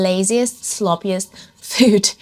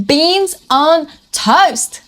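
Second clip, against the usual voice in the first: disgusted; 6 semitones higher, 3 dB louder, much slower than usual. Retold or imitated. Disgust at British food.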